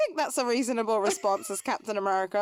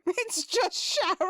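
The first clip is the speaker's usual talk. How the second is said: high, slow put-on voice; mock Sharon line; 8 semitones higher, slower than usual. Echoing co-host's joke about Sharon, high silly voice. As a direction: draw it out high, breaking into laughter. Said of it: "I don't know why Sharon sounds like that".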